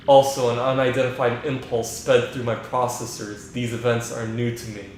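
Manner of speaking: flat, even AI voice like Hal; calm, emotionless machine; monotone computer voice. Acted. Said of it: "just that monotone voice".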